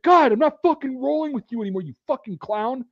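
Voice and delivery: raging gamer ditching his teammate; angry. Retold or imitated. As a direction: spit it out at the clown who got you killed.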